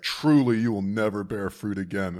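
mock fed-up pronouncement. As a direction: hit TRULY loudly, then settle. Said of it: "He's fed up with the fig".

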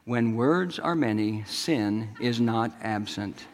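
slow, soft and even, no heat at all; quiet calm rebuke, unhurried; very calmly. Retold or imitated. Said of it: "she just said very calmly".

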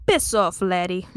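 lightly put-on Irish retort; bad Irish accent. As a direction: try out a mock Irish brush-off. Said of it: "the Irish guy was like".

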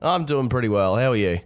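stuffy nose from the flu; nasally voice. Real, not acted. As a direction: speak through a blocked, nasally nose. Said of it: "You sound a bit nasally".

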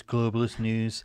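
slow, sneering relabel; mocking twist. Shown as a demonstration. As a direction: drawl the name with scorn. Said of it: "Global News".

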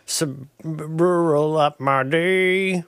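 very slow, stretched-out drawl; drawled rural character. Pretend. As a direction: drag the words out like a rural old-timer. Playing a rural Slim Pickens figure.

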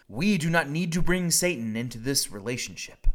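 high, loud, frantic praying; panicked plea. Pretend. Preacher acting out the sensible panicked prayer to God. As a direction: beg God in a hammed-up panic. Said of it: "a normal, theologically informed, and accurate response".

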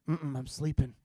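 soft, drowsy mumble; feigned sleepiness. Retold or imitated. Husband to wife avoiding the noise, faking sleep. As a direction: pretend you are fast asleep. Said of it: "If I look asleep".

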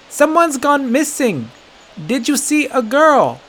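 high, slow, put-on human voice; best human voice. A narrator's reading. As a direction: try hard to sound human. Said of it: "in his best human voice".

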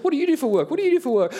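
high, laughing parody of a robotic question; mock stiff repetition. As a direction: rattle the question off twice, mocking yourself. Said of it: "It doesn't really flow like that".

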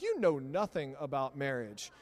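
loud scolding retort to the newlyweds. Retold or imitated. Pastor tells newlyweds on social media off in a loud retort. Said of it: "I'm like".

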